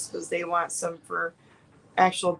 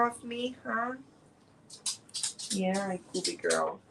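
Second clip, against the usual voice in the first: dog voice; 3 semitones higher than usual. Pretend. Voicing the dog.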